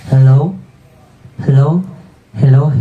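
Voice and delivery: hello through an echoing mic. Shown as a demonstration. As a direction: echo effect on the voice. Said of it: "Adding echo".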